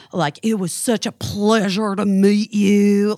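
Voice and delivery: slow, showy mock politeness; hammed-up fake courtesy; big show. Man saying goodbye to her friend, slow showy fake politeness. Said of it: "like, a big show of that".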